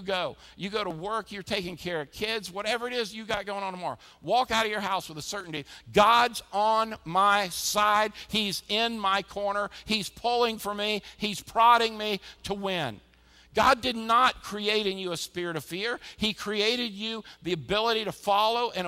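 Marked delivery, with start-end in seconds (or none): 5.9-13.0 confident declaration. Pretend. Churchgoer voicing certainty.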